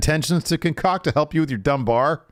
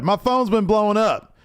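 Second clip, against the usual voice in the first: mock yelling; 9 semitones higher than usual. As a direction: imitate an agitated man yelling. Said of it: "He starts yelling".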